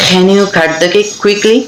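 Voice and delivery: every word of "Can you cut the cake quickly?" drawn out slowly; slow practice sentence. Shown as a demonstration. Teacher drills a practice sentence slowly for learners. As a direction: spell it out slowly for the students. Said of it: "এভাবে কিন্তু আমরা এটা পড়বো".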